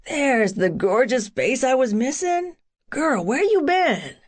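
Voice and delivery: happy jock calling her gorgeous; excited big guy. Acted. Tug greets her happily.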